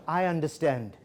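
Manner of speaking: gentle, understanding reply; calm acknowledgement. Shown as a demonstration. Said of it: "Do the same structure".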